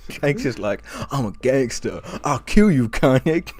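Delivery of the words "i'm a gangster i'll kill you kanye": half-hearted gangster impression; mock gangster. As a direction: threaten like a wimp playing gangster. Mocking a rapper as fake gangster.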